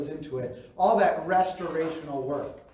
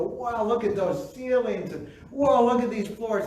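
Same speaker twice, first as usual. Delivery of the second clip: amazed; 5 semitones higher than usual. Retold or imitated. Couple amazed touring dream house.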